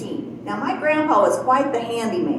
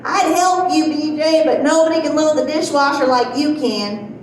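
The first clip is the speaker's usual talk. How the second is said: mom calling out from the next room, higher at the start; mock yell; 4 semitones higher than usual. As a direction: imitate mom hollering a compliment, only mildly raised. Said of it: "she's yelling at me".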